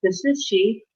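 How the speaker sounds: retold formal phone reply; super formal. Candidate replying to a recruiter's call, super formal. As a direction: confirm your name very properly. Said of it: "I was just super formal".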